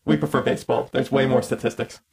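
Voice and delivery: low deadpan robot lines; sarcastic robot monotone. Pretend. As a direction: say it like a bored machine. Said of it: "Sarcastic robot noise".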